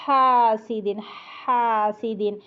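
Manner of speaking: हासिदिन starting with a breath before the h; breathy ha. Shown as a demonstration. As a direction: let breath lead हासिदिन. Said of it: "पहले सांस की आवाज़".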